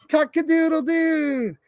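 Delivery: high, drawn-out cock-a-doodle crow; rooster crow. Acted. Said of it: "He can sound like a rooster".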